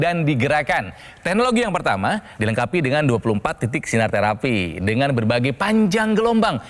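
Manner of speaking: upbeat hard-sell ad read; infomercial. Acted. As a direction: pitch it like a TV shopping host. Host switches into product pitch.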